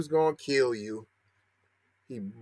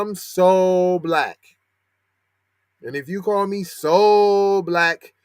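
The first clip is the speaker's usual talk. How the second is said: "so" stretched long in "so black"; stress on SO; 3 semitones higher, 4 dB louder, slower than usual. Real, not acted. Commentator turning the slur round on himself, stress on SO. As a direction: draw out SO proudly before "black". Playfully embracing "so black" as compliment.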